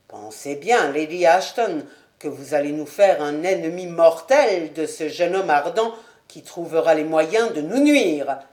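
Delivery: a worried nobleman pleading caution; Sir William. Acted. Sir William warns his wife.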